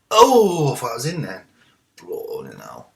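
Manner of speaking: high loud yelp breaking into a wail; anguished cry. Real, not acted. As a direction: cry out as the chance slips away. Near goal in game.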